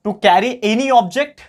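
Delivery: slow, spaced dictation pace; dictating word by word. Shown as a demonstration. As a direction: spell it out slowly so students can write. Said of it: "teacher dictates a definition".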